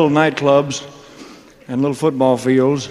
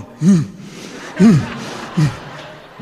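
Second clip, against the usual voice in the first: imitating a dog; 4 semitones higher, much slower than usual. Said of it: "Dog's going".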